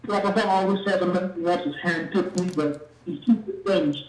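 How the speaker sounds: muffled bad phone line. Real, not acted. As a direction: caller sounding muffled. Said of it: "it sounds like you're muffled".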